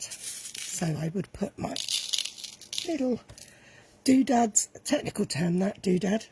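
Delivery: slightly hoarse, croaky voice. Real, not acted. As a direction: speak through a croaky throat. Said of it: "Sorry, I'm a bit croaky today".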